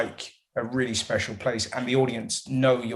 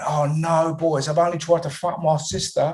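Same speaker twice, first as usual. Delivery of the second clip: put-on London cockney bloke voice, pitched up; 5 semitones higher, 4 dB louder than usual. Describing a show scene where a cockney bloke turns to the camera, cockney bloke voice. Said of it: "this sort of cockney bloke going".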